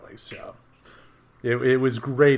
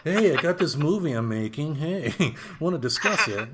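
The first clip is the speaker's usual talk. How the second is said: laughing sleazy come-on, raised pitch; mock-seductive producer pitch; 5 semitones higher than usual. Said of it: "waiting to be pointed towards the casting couch".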